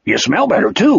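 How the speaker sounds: lightly cheerful creature voice; a touch of happy bounce; Wolf, cheerful. A narrator's reading. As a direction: say it brightly and simply. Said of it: "Wolf said cheerfully".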